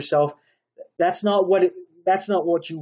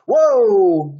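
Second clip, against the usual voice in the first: loud sudden whoa, higher; sharp attention call; 4 semitones higher, 9 dB louder than usual. Retold or imitated. Parent startling a child away from the outlet, loud whoa. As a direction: bark it to stop a child's hand. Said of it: "get the child's attention".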